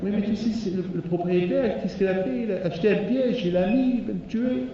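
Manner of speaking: high pleading mouse voice; a small worried voice explaining its danger; anxious mouse. Acted. The mouse explains the trap to the rooster, high and anxious.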